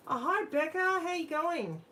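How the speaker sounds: bright welcoming hello to a viewer called Becca; sing-song greeting. Real, not acted. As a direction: greet her like a long-lost friend, stretched out high.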